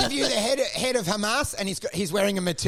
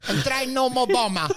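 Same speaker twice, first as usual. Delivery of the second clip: put-on Ukrainian accent; 4 semitones higher than usual. Imitating Zelensky's halting English, Ukrainian accent. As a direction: labour over every word. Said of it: "'cause he goes".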